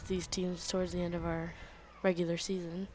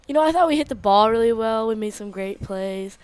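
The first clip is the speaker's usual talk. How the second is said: out of breath after playing; talking between hard breaths; heavy breathing; 4 dB louder than usual. Real, not acted. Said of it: "Sorry, I'm breathing hard".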